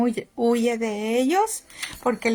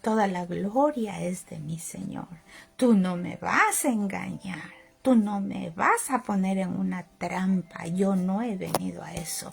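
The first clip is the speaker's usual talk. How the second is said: stern calm rebuke; 4 semitones lower than usual. Retold or imitated. Pastor rebukes the demon.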